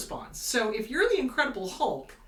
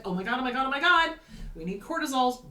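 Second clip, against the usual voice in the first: mock panic; 3 semitones higher, 3 dB louder, faster than usual. Amygdala voiced in panic.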